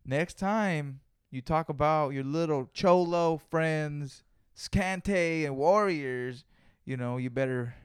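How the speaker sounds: slow, mock threatening boss; threatening editor. Editor threatening to kick him off the network, slow mock menace. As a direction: drag it out as a lightly voiced menacing boss. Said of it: "he said it like that".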